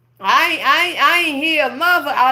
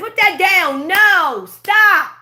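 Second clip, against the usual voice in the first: mock mom scolding; 4 semitones higher, 4 dB louder, much slower than usual. Mimicking mom's constant scolding.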